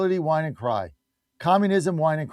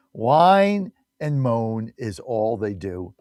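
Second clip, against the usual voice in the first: slow mocking drawl; 4 semitones lower, much slower than usual.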